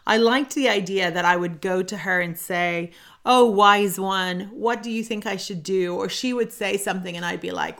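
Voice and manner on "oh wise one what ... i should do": mock reverence. Mock adoring plea to guru.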